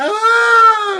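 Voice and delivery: put-on very high, loud baby scream at high C. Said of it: "high C pitch scream".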